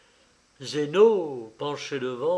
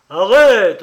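"arrête" cried higher and much louder, with a falling end; sepulchral voice; 5 semitones higher, 14 dB louder than usual. A narrator's reading. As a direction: hurl "arrête" up hard, then let it drop like a bell stroke. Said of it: "d'une voix sépulcrale et lente comme un glas".

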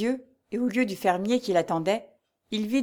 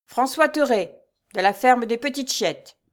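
high, loud, measured roll call; pompous steward reading dues; 5 semitones higher, 5 dB louder than usual. A narrator's reading. Steward reading a tenant's dues aloud, pompous. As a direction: read the register like a proclamation. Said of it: "poursuivit le majordome".

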